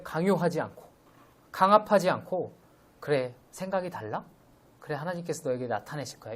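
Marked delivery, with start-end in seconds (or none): 3.0-6.3 soft, calm, tolerant reply; quiet gentle acceptance from Paul; gentle reassurance. Retold or imitated. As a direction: let it go kindly, no pressure. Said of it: "이렇게 얘기하는 거예요".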